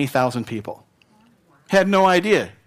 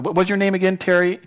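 higher, breezy asking for a name; mock forgetful; 5 semitones higher than usual. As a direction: act a casual acquaintance who forgot. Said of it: "That's not what this is".

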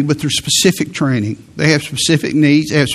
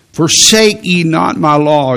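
slow, earnest plea from a father; a father pleading with his son, slow and earnest; 3 dB louder than usual. Acted. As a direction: beg the son gently not to forsake it. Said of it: "You hear, you hear the pleading here".

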